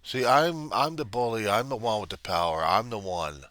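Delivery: a lightly voiced sneering supremacist, taunting; arrogant alpha bully. Alpha bully taunting the Reverend, lightly sneering. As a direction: look down your nose and taunt.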